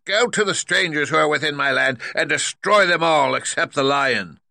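high, loud witch command; wicked witch. A narrator's reading. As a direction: order the monkeys like a cruel witch. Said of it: "said the wicked witch".

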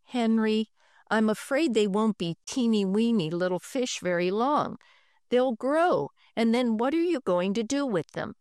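mild worry, gently; concerned mother. Acted. Mother warning son fish will grow, mildly concerned.

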